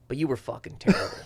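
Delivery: soft, low-key imitated insult; quiet parting jab. Heckler to comic after apologising, quiet jab. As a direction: slip the insult in softly.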